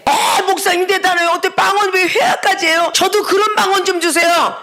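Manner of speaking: 높은 음으로 감탄하며 조르는 흉내; 목사를 치켜세우며 방언을 청하듯; 감탄하는 교인 흉내. Retold or imitated. (들뜬 교인처럼 높게)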